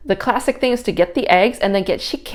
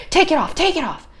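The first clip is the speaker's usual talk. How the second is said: much higher and louder, fast repeated command; shrieked order; 11 semitones higher, 4 dB louder, faster than usual. Retold or imitated. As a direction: shriek it like the furious sweeper. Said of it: "She's like".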